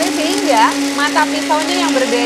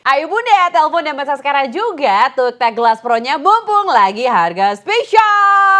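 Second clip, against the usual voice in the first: infomercial; 3 dB louder, slower than usual. Acted. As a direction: urge viewers to call now. Teleshopping call to order now.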